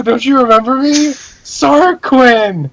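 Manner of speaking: eager plea. Acted. Acted plea to old acquaintance.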